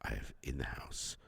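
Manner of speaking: slow, low, quiet castaway diary; low log entry. Pretend. A man mocks his stuck-at-home days in a low log voice. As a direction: drone it like a lonely log entry. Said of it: "And it's like".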